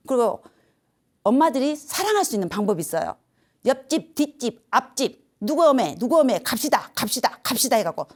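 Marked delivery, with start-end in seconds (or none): 3.7-7.8 high, rallying call to the neighbours; acted-out village summons, pitched up. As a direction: round everyone up, name after name. Acting out calling neighbours to come.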